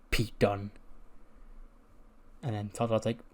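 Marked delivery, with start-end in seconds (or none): 0.1-0.7 understated, dazed mumble of a reply. Acted. Former champ slumped in studio answering the rapper, out of it. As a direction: answer low-key, as if zoned out. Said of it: "just, just out of it".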